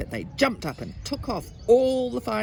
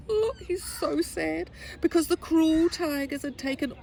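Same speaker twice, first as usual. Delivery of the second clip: pitying; 11 semitones higher than usual. A narrator's reading. Reader pities the crying boy.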